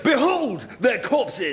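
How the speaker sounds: slow, grand shouted declaration; heroic proclamation. Acted. Hercules presenting dead birds to the king, grand proclamation. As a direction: proclaim it like a mythic hero. Hero presenting his trophy.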